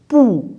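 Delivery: teacher isolating "Pou"; isolated first syllable. Shown as a demonstration. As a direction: sound out "Pou" as one separate syllable. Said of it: "La première".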